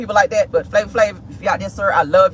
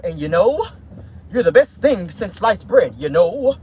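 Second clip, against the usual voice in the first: smooth talker; 2 semitones lower, slower than usual. Retold or imitated. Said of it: "that's how he talked".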